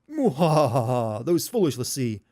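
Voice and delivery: slow gloating villain laugh, then sneering; mustache twirling villain. Retold or imitated. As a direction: cackle and gloat like a cartoon villain. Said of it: "Barthandelus's part".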